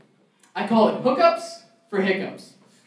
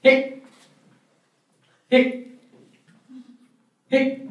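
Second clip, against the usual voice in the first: mock hiccups; hiccup imitation; 4 semitones higher, much slower than usual. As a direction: fake little hiccup sounds. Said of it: "you kinda go like".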